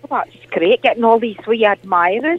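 a lightly put-on Scottish auntie, chatty and fond; Morag caller voice. Glasgow caller greets the radio host, in a lightly put-on Scottish auntie voice. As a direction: play the sweet old Glasgow lady caller.

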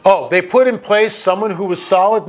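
mock-incredulous echo of Joe's words; sarcastic echo. Real, not acted. Host mocking Joe's claim, scornful echo. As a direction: repeat it back with scorn. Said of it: "No, it doesn't work like that, Joe".

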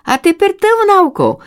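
high call from below. A narrator's reading. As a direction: call up to the little sister. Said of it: "кричала їй з долу сестричка".

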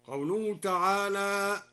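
ordinary talk

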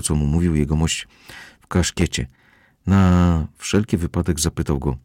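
usual speaking voice

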